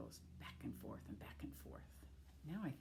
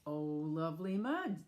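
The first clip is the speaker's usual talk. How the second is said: delighted; 4 dB louder than usual. Acted. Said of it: "said the duck".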